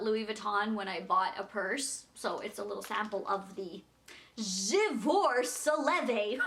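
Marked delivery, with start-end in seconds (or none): 4.4-6.4 J'adore Soleil said slowly in a French way, with a laugh; drawn-out French name, laughing through it; slow French attempt. Shown as a demonstration. Telling viewers about a perfume sample, slow French-sounding J'adore Soleil. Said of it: "some French thing".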